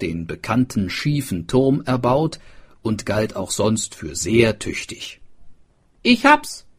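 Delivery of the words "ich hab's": high, loud with a rising end; repeated eureka. A narrator's reading. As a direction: say it again, triumphant and rising. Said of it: "sagte er noch einmal".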